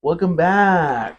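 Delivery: drawn-out, very slow greeting; mock vlogger intro. Co-host echoes the selfie vlog intro, mock vlogger. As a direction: stretch out each word like a vlogger.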